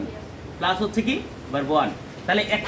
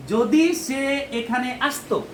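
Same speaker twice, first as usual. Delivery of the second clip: যদি সে এখানে আসতো read slowly and evenly, no special push on আসতো; slow demo reading; much slower than usual. Shown as a demonstration. Teacher first reads the example sentence to students, slow and even. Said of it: "এরকম বাংলায় উচ্চারণ করি".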